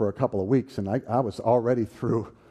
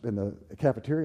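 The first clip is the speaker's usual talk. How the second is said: normal talking voice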